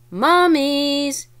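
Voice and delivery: loud, high excited shout. Acted. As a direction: shout it with delight. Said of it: "Annie shouted".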